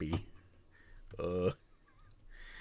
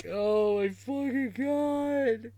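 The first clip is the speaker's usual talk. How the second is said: slow amazed cry; 2 semitones higher, slower than usual. Real, not acted. Reacting with delight.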